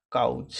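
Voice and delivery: काउच with the उ moved before छ; काउच, vowel shifted forward, का-उच; correct Maithili. Shown as a demonstration. Teacher showing pupils the Maithili काउच. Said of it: "ऊ का उच्चारण पहले हो जाएगा".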